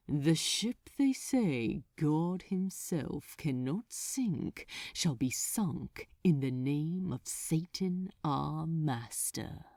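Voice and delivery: low, heavy and final, each word a verdict; a mild, grave demon lord sealing a fate; terrible finality. Acted. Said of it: "with terrible finality".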